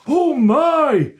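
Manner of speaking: high, breathless exclamation; breathless gasp. A narrator's reading. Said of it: "it said breathlessly".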